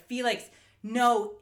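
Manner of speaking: mock desperate plea, drawn out; retold panic. Host retelling Sarah's plea to Felix, mock panic.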